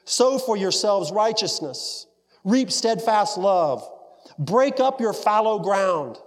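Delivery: high, slow prophetic proclamation; crying out. Acted. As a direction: proclaim it like an urgent summons. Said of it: "He is crying out the words".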